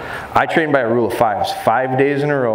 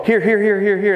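calling the dog; 9 semitones higher than usual. Retold or imitated. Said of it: "If you go".

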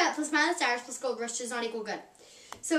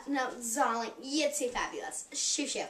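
softer, dismissive diva brush-off; stuck-up diva; 3 semitones lower, 7 dB quieter than usual. Acted. Girl shows what the stuck-up character means, softer and dismissive. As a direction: shoo them away like a spoiled star. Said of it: "what the accent means".

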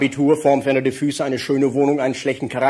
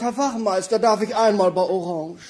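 camp pleading; 2 semitones higher than usual. Acted. Camp man at traffic light.

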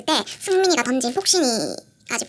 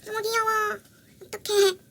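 higher gushing coo; 7 semitones higher, slower than usual. Real, not acted. Showing the cushion to viewers, higher gush. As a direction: gush over the cute cushion.

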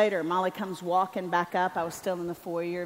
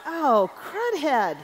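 laughing dismay; 6 semitones higher, 4 dB louder, much slower than usual. Retold or imitated. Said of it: "And I was like".

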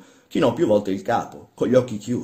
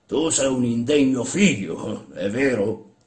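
higher, slow accusing question; lightly voiced stern old man; 3 semitones higher, 3 dB louder, slower than usual. Old master challenging the workman, stern. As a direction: scold him like an old master.

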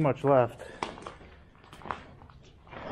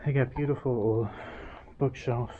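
muffled through a face mask; talking through a mask. Real, not acted. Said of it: "sorry if I sound a little muffled".

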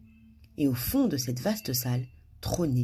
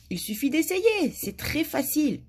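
high, light encouragement; smiling; 11 semitones higher than usual. A narrator's reading. Madame Bonheur coaches the king, smiling. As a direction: coax with a smile in the voice. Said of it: "dit en souriant".

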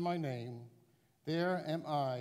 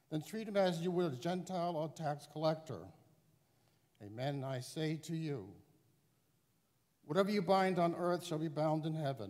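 higher reading with church reverb; cathedral echo; 7 semitones higher than usual. Real, not acted. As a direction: read into a big echoing hall. Gospel proclaimed in large church.

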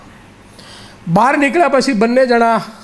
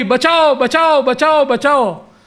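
mild mock yell, pitched up; retold shouting for help; 4 semitones higher than usual. Younger boy calls villagers for help, mild mock shout. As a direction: call for rescue without full volume. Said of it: "જોર જોરથી બૂમ પાડી".

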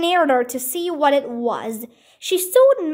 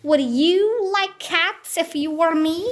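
indignant mouse; 3 semitones higher than usual. Acted. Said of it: "in a shrill, passionate voice".

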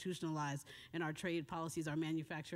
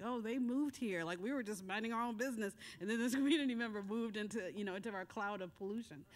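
mocking polluter voice; 4 semitones higher than usual. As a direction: lightly voice the dismissive polluter. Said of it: "I've heard from these polluting folks like".

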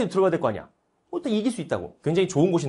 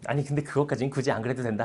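reluctant Qing; 5 semitones lower, 7 dB quieter than usual. Acted. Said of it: "그랬더니 청나라가".

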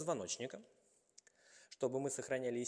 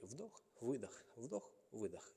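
soft breath cues, unhurried; softly pace the inhale and exhale; counting breaths; 7 dB quieter, slower than usual. Real, not acted. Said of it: "coach paces breathing aloud".

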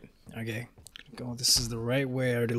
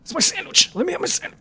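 put-on whiny baby voice; 8 dB louder, faster than usual. Voicing the baby grabbing item.

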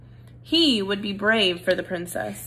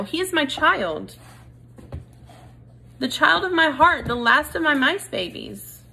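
desperate mother; 7 semitones higher than usual. Acted. Mother pleads for her son.

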